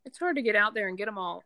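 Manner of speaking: talking with a mouthful; words round a bite of food; mouth full. Real, not acted. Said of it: "I'm sorry, my mouth is full".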